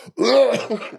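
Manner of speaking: high-pitched mock choking outburst; imitated choking fit. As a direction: act out dying of a cough. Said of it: "like, dying".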